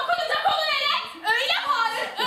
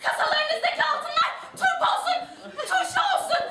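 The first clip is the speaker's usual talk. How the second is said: cursing shout; 2 semitones higher, 4 dB louder than usual. Acted. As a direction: hurl curses at the whole bank. Woman curses the bank loudly. (bankaya bağırarak beddua eden kadın)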